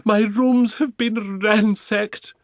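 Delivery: very high, loud shrieking opera diva; screaming Duchess. Acted. Duchess discovering her stolen jewels, high loud shrieking. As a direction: wail it like a robbed prima donna. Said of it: "came flying out screaming".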